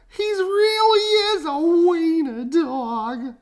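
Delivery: high, slow teasing dog voices; mocking dogs. A narrator's reading. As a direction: dogs laughing at Oscar. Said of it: "they cried".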